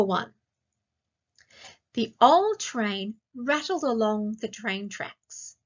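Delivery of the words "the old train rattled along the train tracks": slow, clear read-aloud pace. Shown as a demonstration. Teacher to class, reading the sentence slowly. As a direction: read it slowly so kids can find the word. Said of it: "I'll read each sentence slowly".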